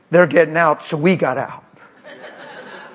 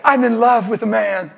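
laughing repeat; 5 semitones higher than usual. Retold or imitated. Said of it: "He said".

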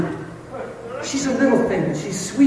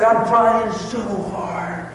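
retold tearful strain; 4 semitones higher, much slower than usual. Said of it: "I started crying so hard".

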